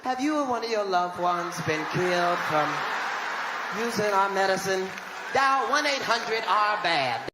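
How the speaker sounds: hushed drug-ad disclaimer read; quiet commercial voiceover. Retold or imitated. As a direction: murmur it like the fine print of a TV ad. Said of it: "you hear this quiet-ass commercial".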